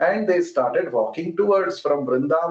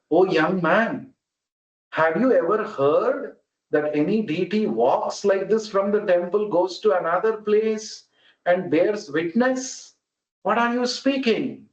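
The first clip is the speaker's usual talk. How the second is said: deity speaking; 4 semitones higher than usual. Retold or imitated.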